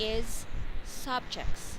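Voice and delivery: "subjects" said slowly with every sound clear; slow, clear "is subjects" ending in -jects; careful model. Shown as a demonstration. Tutor models the word for the student, slow and clear. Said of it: "Another one that you stop".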